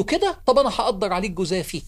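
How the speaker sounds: mildly angry official passing sentence; indignant jump on the first word, then firm; retold anger. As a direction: act out an offended official's threat. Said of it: "الراجل غضب".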